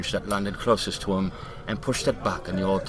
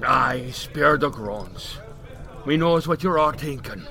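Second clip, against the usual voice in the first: put-on old Irish drunk; 4 semitones higher than usual. Mickey's voice.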